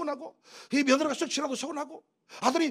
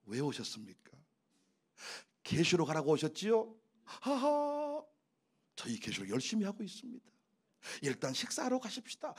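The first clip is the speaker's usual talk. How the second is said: bright smiling welcome; 9 semitones lower, 6 dB quieter than usual. Acted. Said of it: "환한 미소를 가지고".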